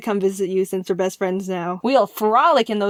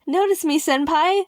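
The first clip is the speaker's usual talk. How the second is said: lightly hammed-up fangirl voice, pitched up; mock fangirl plea; 6 semitones higher than usual. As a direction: beg for notice like a playful fan. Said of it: "they're saying things to him like".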